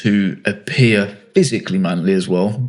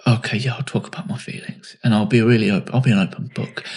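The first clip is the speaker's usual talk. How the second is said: sarcastic. Retold or imitated. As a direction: say it with a sarcastic edge, as if you don't mean it. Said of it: "it comes out as sarcasm".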